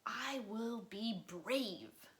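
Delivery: slow, deliberate self-encouragement; a touch of shaky resolve; slow brave vow. Acted. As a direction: talk yourself into courage. Child bracing himself.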